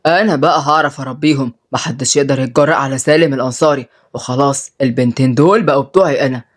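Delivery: low, contained menace; angry. Acted. Boss vows to teach the girls, mildly angry. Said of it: "ورد سالم بغضب".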